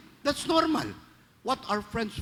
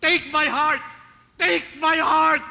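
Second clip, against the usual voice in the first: loud, high eager shout, the second slower; crowd shouting; 7 semitones higher, 6 dB louder, slower than usual. Retold or imitated. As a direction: cry out to the Pope, begging to give your heart. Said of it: "Nagsigawan yung mga Katoliko". (malakas na sigaw ng mga Katoliko)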